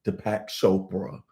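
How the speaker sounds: measured read-aloud of an opening quote. Acted. Host opens the session for viewers with a quotation, measured reading. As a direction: read it out as prepared text, trailing down at the end.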